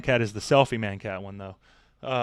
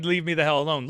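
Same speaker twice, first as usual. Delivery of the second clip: emphatic quote; 3 semitones higher, 5 dB louder, faster than usual. Retold or imitated. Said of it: "really was his way of saying".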